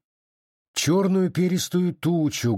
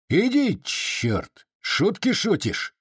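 sharp high jab on the first word, then slower; gruff shooing; 8 semitones higher, slower than usual. A narrator's reading. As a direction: shoo the captive off with a rough bark. Chubaty shooing the captive.

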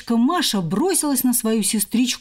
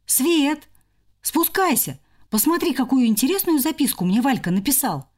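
mild call up the stairs; calling out loud; 4 semitones higher than usual. Acted. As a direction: call upstairs, higher and eager. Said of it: "громко крикнул".

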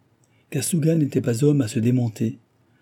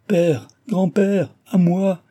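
high, loud, drawn-out cries for help; terrified cry; 9 semitones higher, 5 dB louder, much slower than usual. A narrator's reading. Young woman carried off calls her father, terrified. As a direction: call out in panic, voice pitched way up. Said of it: "criait-elle, folle de terreur".

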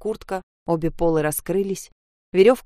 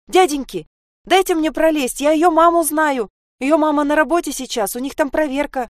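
put-on high, loud girl's plea over the crowd; child calling out; 9 semitones higher, 5 dB louder than usual. Sasha calls out loudly to the crowd of men. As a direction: shout it higher and louder, desperate to get through.

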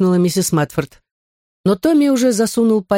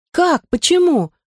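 high, worried little questions; a child suddenly unsure she's in trouble; slightly alarmed; 13 semitones higher, slower than usual. Acted. Girl alarmed by the teacher's outburst. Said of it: "слегка встревожилась Джуди".

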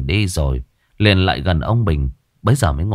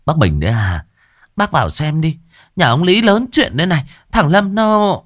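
higher, louder gabbing busybody; loud gossip; 9 semitones higher than usual. A narrator's reading. A loud-mouthed woman tells Bình the news, blaring. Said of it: "một bà lắm mồm bô bô".

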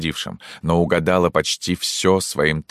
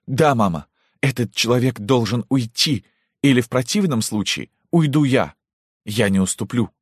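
theatrical pathos; 8 semitones higher than usual. Acted. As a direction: deliver it like a stage heroine. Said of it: "с театральным пафосом". (с театральным пафосом)

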